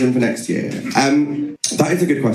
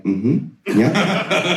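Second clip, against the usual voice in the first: timid polite murmur; 5 semitones higher than usual. Retold or imitated. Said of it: "we were like".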